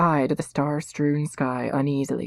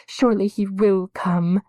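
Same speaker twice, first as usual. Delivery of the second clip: anxious hope; 6 semitones higher, 4 dB louder than usual. A narrator's reading. Girl's anxious thoughts.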